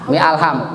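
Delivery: "Mi alham" with the "a" of alham sounded; wrong joining. Shown as a demonstration. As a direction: break "Mi alham" into mi plus al-ham. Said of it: "jangan mi alham". ("Mi alham" dengan alif tetap dibaca)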